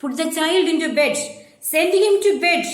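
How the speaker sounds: put-on council member orders the boy to bed, shouting; mock shout. A touch of an angry shout, fast. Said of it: "he shouted".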